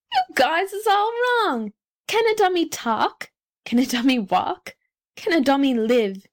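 put-on high-pitched street kid's argument; bootblack. A narrator's reading. Bootblack argues with the crowd.

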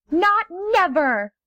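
high, slow defiant refusal; stubborn rays. Acted. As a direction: dig in and refuse. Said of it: "said the rays".

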